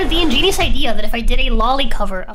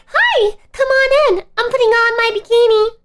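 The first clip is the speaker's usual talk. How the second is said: put-on high, sweet little girl voice; squeaky girly voice, pitched way up; 11 semitones higher, 5 dB louder than usual. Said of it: "My best little girl's voice".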